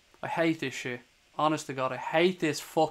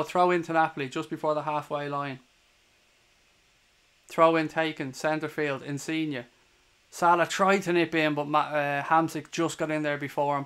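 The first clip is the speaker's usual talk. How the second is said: steady live match commentary; play-by-play. Acted. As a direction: call the game as it unfolds.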